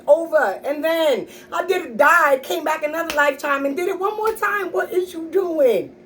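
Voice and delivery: hammed-up tough-love mother calling out a faker; retold mom scolding. Mother scolding son about school.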